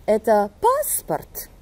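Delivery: slow, voice jumps on "passeport", then drops; "passeport" peaks on PAS and falls after; Russian question tune. Shown as a demonstration. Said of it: "Écoutez encore une fois". (question russe lente, « passeport » monte puis retombe)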